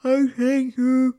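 lilting grateful voice; relieved thanks. Acted. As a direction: thank him again, gushing. Repeated thanks.

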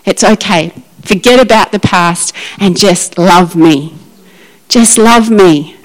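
Jesus gently forgiving Peter; tender Jesus. Acted. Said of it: "And Jesus said".

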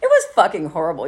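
blunt serious admission; grim admission. Retold or imitated. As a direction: admit it flatly. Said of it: "think about all that shit".

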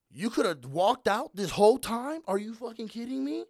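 loud, high, drawn-out disbelief; retold exasperation. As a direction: act out calling him out, incredulous. Retelling his disbelief at the customer.

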